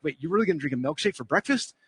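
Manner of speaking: lightly voiced sceptical inner logic. Logic challenging the milkshake choice, mildly sceptical voice. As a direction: question it doubtfully, without raising the voice. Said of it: "the logic comes in like".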